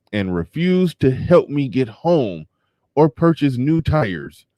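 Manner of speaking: measured read-aloud with pauses between phrases; deliberate recital of someone's written plea. Acted. Reads fundraiser plea aloud.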